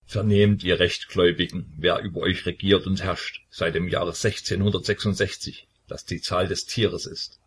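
lightly voiced solemn preacher; solemn proclamation. A narrator's reading. Old Kornelij proclaiming to the Orthodox, lightly solemn. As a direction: proclaim it to the faithful, grave and measured. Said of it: "rief feierlich aus".

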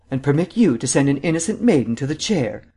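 lightly played mock indignation. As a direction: exclaim in pretend shock. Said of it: "exclaimed Vance in mock indignation".

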